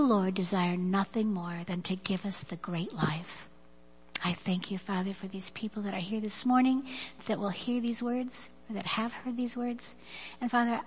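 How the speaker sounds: earnest prayer, rising then fading to whispers. Acted. Leads closing prayer.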